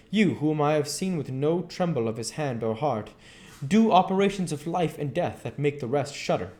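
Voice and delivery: the professor, grave and insistent; a mentor giving firm instructions; earnest professor voice. Acted.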